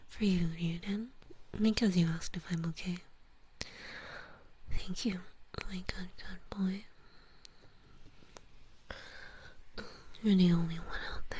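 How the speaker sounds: put-on doting ASMR girlfriend-style praise; intimate roleplay praise. Murmured praise in roleplay routine.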